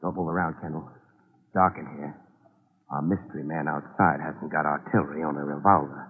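low, hushed voice. Acted. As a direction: keep it down, someone's outside. Hiding in the dark room.

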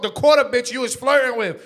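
New York attitude, punchy and loud; New York talk. Shown as a demonstration. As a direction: hit it like a loud New Yorker. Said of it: "that's how New Yorkers talk".

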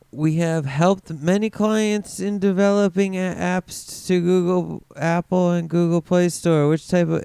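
salesman voice. Retold or imitated. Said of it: "and then he lists all these things".

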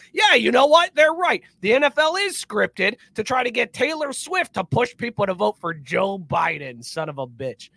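mocking a conspiracy fan, fading out; mock gullible believer. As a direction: play the dupe who just got it. Mimicking gullible conspiracy followers.

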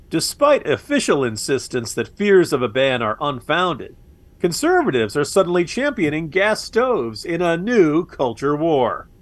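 slow, oily anchorman read of the tweet; smarmy newsman voice. Shown as a demonstration. Mocking a tweet by reading it as a smarmy newsman. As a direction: read it like a smug TV newsman, slowly. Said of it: "that is my smarmy newsman, uh, voice".

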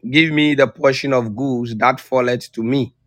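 ordinary talk, nothing marked

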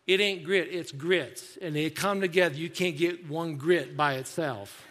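imitated Southern waitress setting a customer straight; lightly put-on Southern accent; little southern accent. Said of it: "with a little southern accent".

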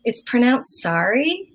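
slow correction with "sorry" as SAR-ee; retold American pronunciation of "sorry". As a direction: correct them slowly, American "sorry" like "sari". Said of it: "they say sorry instead of sorry".

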